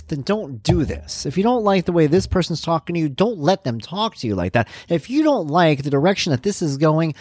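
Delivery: lecturing his own mind to stop wallowing; stern self-talk. Retold or imitated. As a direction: tell yourself firmly to snap out of it.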